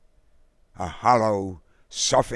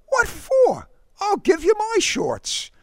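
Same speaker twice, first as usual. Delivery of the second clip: put-on loud, high boyish offer; volunteering; 4 dB louder than usual. A narrator's reading. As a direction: offer eagerly, pitched right up. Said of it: "Derek volunteered".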